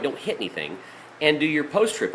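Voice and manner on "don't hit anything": quiet repeat. Shown as a demonstration. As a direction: repeat it quietly so the rule sinks in. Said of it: "that's a major point".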